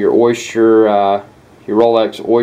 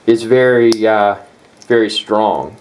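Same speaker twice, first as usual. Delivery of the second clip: hiccups. Real, not acted. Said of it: "I got the hiccups".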